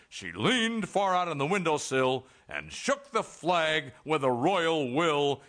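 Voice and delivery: slow, measured verse reading; poem recitation. Acted. Official reciting the commissioned poem to Missus Fritchie, slow recitation. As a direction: declaim it grandly, drawing out each phrase. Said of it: "It goes like this".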